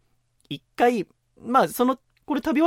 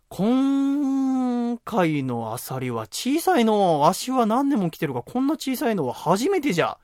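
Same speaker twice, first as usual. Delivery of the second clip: put-on drawn-out old man grumble; 5 semitones higher, much slower than usual. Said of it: "まあまあなボリュームで言うの".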